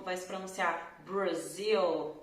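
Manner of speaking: Brasil said with a foreign vowel. Shown as a demonstration. Teacher showing a foreign way to say Brasil. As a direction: demo Brasil as other languages say it. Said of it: "Em algumas línguas vão".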